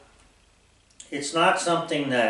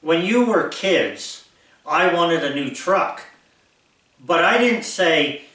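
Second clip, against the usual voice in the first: higher, emphatic pretend address to the kids; talking to own kids; 4 semitones higher, 5 dB louder, slower than usual. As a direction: lecture your grown kids as if they're in front of you. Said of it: "I'm making believe I'm talking to my own kids".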